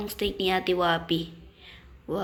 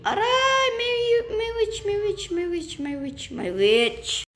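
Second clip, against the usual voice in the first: high-pitched rapid repeated cry; panicked alarm; 13 semitones higher than usual. Real, not acted. Player warns of an attacking witch, panicked high cry. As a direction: yelp high in panic, then come down.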